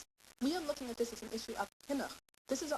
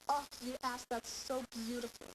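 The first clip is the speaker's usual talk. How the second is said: praise; 4 semitones higher than usual. Shown as a demonstration. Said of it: "positive reinforcement".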